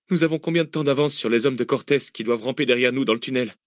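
a worn-out fugitive asking how far ahead they are; weary Cécile. Acted.

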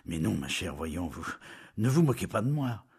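mildly irritated, rising at the end; a shade of bad temper. Julien annoyed with his bride, mildly irritated. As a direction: let annoyance creep in. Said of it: "avec une nuance de mauvaise humeur".

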